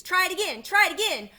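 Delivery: very high, loud honking goose cries; shrieking goose. A narrator's reading. Goose urging Wilbur to escape, shrill frantic cries. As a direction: screech the orders like a frantic goose. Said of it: "cried the goose".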